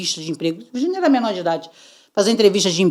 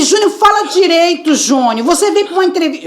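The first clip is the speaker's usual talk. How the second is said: raised voice; 8 semitones higher than usual. Retold or imitated. Mother raises her voice at son in interview. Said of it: "Eu já alterando o tom de voz".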